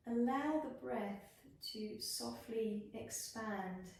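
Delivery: unhurried body-scan voice with long pauses; guided meditation. Acted. Yoga teacher guiding students through a body scan, guided meditation. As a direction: lead them gently into rest, phrase by phrase.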